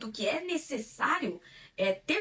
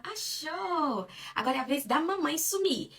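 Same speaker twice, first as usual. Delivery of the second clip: high bright peekaboo call; playful, higher baby talk; 6 semitones higher than usual. Shown as a demonstration. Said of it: "e fala". (falando com o bebê, voz aguda)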